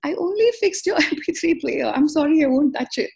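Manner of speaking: lightly voiced husband protesting his innocence; alarmed husband. Husband quoted as apologizing in alarm.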